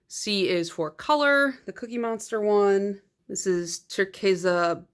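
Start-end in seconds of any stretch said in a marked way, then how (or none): 3.3-4.8 attempted Spanish accent. Real, not acted. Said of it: "I'm sorry if my accent is bad".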